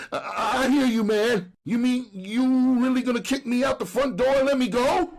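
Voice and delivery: high, pleading street hustler. Acted. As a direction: beg like a jailed junkie. Shaking Brown can't believe it.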